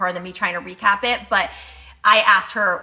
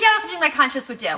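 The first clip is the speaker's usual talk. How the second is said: quicker, higher, laughing through the quote; laughing retelling; 5 semitones higher, faster than usual. Retold or imitated. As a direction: retell her words while cracking up. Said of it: "but she's like".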